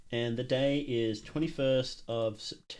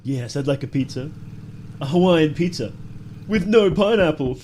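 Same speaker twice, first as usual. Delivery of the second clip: evil voice; 2 semitones higher, 7 dB louder than usual. Pretend. Prank pizza order in evil voice.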